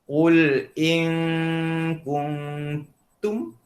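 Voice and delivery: "Qul in kuntum" recited in tajwid style, set apart from his chatty explanation; Quran recitation. Shown as a demonstration. Teacher quotes a verse as an example, recited. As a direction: chant the verse as in Quran reading. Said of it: "Contohnya dalam Quran apa?".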